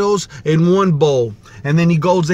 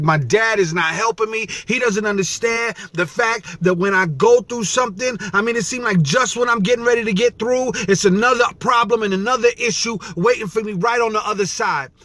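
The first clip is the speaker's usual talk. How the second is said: higher-pitched, mildly exasperated retold complaint; upset daughter; 4 semitones higher than usual. Daughter complaining that dad is not helping, mildly upset. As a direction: lightly act a frustrated daughter venting. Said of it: "she was so upset".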